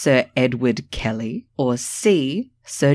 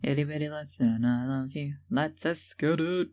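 soundboard catchphrase; 8 dB quieter than usual. Retold or imitated. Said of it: "the Miles soundboard".

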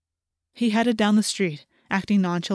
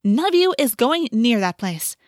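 raised, louder warning; snapping; 4 semitones higher, 5 dB louder than usual. A narrator's reading. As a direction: forbid them sharply. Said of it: "Rachel snapped".

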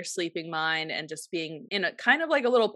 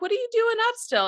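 put-on higher, fast, puzzled boyfriend voice; a high quick mock of the surprised husband; imitating Jake; faster than usual. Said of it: "He's like".

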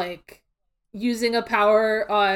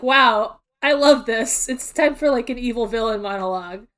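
megalomaniac rant; 4 dB louder than usual. Retold or imitated. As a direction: gloat like an evil villain. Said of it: "Geto has this weird moment of".

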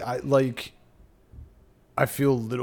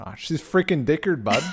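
put-on Wisconsin accent; 4 semitones higher than usual. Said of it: "I like the Wisconsin Northwoods".

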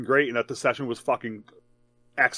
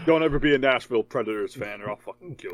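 put-on hillbilly accent; 2 semitones lower, 3 dB quieter than usual. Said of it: "I gotta talk like a hillbilly now".

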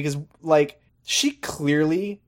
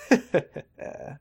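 evil chuckle; 6 semitones higher than usual. Retold or imitated. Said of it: "evil laughs to herself".

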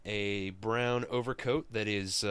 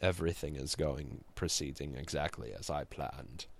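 cold satisfaction, deep villain purr; Darkseid impression; 7 semitones lower, 7 dB quieter than usual. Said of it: "It's my Darkseid impression".

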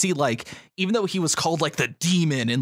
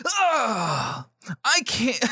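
higher, crying character voice; mock crying; 7 semitones higher, much slower than usual. Crew member caught up in emotion, hammed-up crying. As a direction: sob the words out. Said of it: "playing the various characters".

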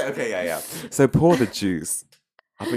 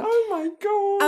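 mock amazement; slower than usual.

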